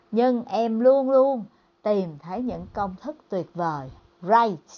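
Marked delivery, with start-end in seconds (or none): 4.2-4.7 "right" with a clear English r and a final t; phát âm "right" kiểu tiếng Anh. Shown as a demonstration. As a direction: say "right" the English way, r then a crisp t. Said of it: "từ này đọc là right".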